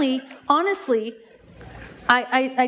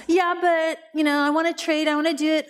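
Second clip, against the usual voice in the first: high-pitched mock protest; retold whiny pushback; arguing back; 5 semitones higher than usual. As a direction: imitate a resistant client objecting. Imitating client arguing back.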